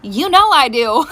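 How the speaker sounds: slow, laughing as she says it; laughing agreement. Real, not acted. Mom accepting girls' day, laughing. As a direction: give in with a laugh.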